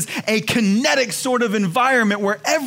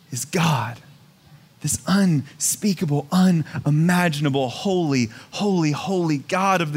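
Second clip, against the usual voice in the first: awed whisper; 4 semitones lower than usual. Acted. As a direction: drop to a hushed whisper on "God". Climax naming God at the centre.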